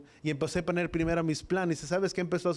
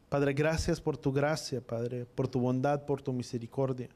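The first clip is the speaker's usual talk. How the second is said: measured, earnest prayer voice, slower in places; congregational prayer. Acted. Pastor praying over the congregation, earnest prayer voice. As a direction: pray it out to the Father with devotion.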